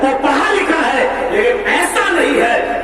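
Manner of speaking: preacher urging his congregation; impassioned preaching. Acted. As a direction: drive the lesson home to the brothers.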